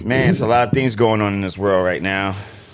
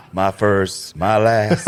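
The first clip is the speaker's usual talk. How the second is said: lightly voiced soul crooner; a hint of a low crooner; a soul singer's voice; 3 semitones lower, much slower than usual. Host quotes a love song, lightly crooning. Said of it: "a soul singer's voice on".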